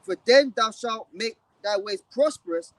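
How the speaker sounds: measured, declaiming Bible recitation, slowing at the end; scripture reading. Acted. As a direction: recite the verse like from the pulpit. Reads scripture aloud.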